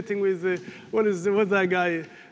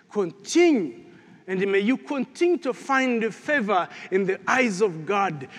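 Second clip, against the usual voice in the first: blessing prayer; 2 semitones lower than usual. Acted. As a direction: lay a blessing on the congregation.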